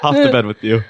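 put-on very high, very slow baby talk; cooing to baby. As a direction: coo it out like to a toddler. Cooing to imagined son.

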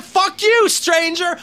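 high, hammed-up rude stranger. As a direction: snap it like a cartoon jerk.

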